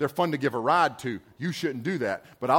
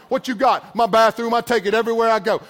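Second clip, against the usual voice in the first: crazy guy; 4 semitones higher, 7 dB louder than usual. Retold or imitated. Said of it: "crazy like carry your poop around".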